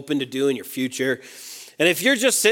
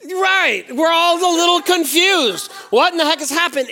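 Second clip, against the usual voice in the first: much higher, bright mock bafflement; mock confused voice; 12 semitones higher, 4 dB louder than usual. Preacher mimicking confused onlookers at a fire, high mock bewilderment. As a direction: play the puzzled crowd, hammed-up.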